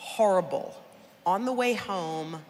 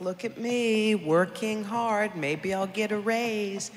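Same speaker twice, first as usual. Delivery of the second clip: mock eager self; 4 semitones higher, 3 dB louder, slower than usual. Mocks her old eager self.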